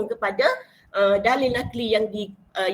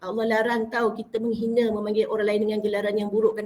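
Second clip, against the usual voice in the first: easy, understated telling; casual delivery. Shown as a demonstration. Young preacher telling God's ban on name-calling, in a casual style. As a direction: say it simply, in an unforced everyday voice. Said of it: "gaya yang bersahaja".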